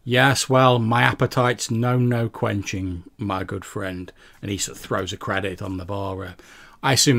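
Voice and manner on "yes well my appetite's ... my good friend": higher, louder, condescending drawl; sarcastic, patronising. Acted. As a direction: talk down to the barkeep with a sneer. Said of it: "in a quite a sarcastic, sort of patronising tone of voice".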